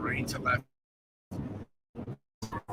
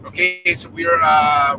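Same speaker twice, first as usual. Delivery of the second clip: breathless shouting over wind; 5 semitones higher, 11 dB louder than usual. Real, not acted. Reporting beside storm, wind loud.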